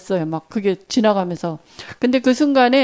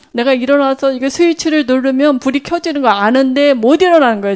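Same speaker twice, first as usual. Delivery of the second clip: ordinary talk, nothing marked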